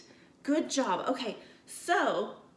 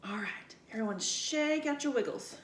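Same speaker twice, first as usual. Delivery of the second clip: whispering. Real, not acted. Settling kids for the story.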